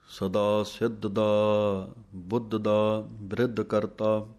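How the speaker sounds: slow, measured chant of verses; scripture recitation. Acted. Teacher recites Jaap Sahib for students, slow chant. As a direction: recite each line with reverence.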